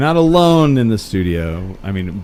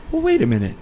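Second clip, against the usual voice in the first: mock detective; faster than usual. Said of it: "Like I was gonna be all".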